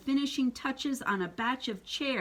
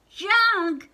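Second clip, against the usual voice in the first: high, loud horrified "Junk?"; aghast cubs crying out; shocked cry; 10 semitones higher, 9 dB louder than usual. Acted. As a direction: gasp the word out in disbelief. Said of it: "said brother and sister".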